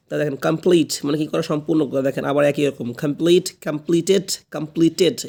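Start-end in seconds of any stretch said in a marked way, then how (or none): 3.6-5.3 "কমপ্লিটেড" with the ending sounded tet. Shown as a demonstration. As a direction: say "কমপ্লিটেড" as com-pli-tet. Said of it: "এখানে কিন্তু টেট".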